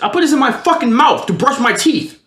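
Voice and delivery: high, emphatic retold protest; exasperated son making his point; indignant. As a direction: spell out the outrage, pitch jumping up. Retold quarrel with his mother.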